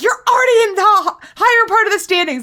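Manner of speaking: very high, loud, top-of-lungs screaming. Retelling last night's hockey standings argument, acting out own past screaming. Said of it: "screaming at each other at the top of my lungs".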